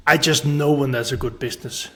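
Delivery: lightly imitated self-assurance; retold certainty. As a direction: quote him as utterly sure. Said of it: "with so much certainty".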